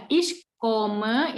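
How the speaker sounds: "komme" with an O, not an A. Shown as a demonstration. Teacher correcting learner's German vowel, "komme" with an O. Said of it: "itu pakai O, bukan A".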